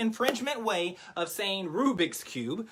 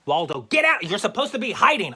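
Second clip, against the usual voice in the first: louder, half-joking telling off; mock scolding; 6 dB louder than usual. Host scolding Waldo for being seen, mock scold. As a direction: shoo the helper back out of sight. Scolding the helper who's showing.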